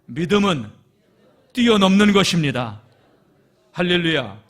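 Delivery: loud, soaring declaration; preaching at full force. Acted. Preacher loudly proclaims faith to the congregation. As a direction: proclaim it to the back of the hall.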